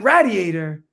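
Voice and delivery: radiator said RAD-ee-ay-ter; short A as in "rad" in radiator; regional pronunciation. Retold or imitated. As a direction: say radiator with a flat RAD start. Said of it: "I kept saying the word radiator".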